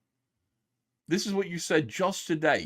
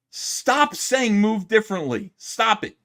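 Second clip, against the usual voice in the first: fed-up scolding, a bit louder; exasperated; 5 semitones higher, 4 dB louder, slower than usual. Real, not acted. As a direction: tell him to cut it out, exasperated. Frustrated outburst at NPC phrase.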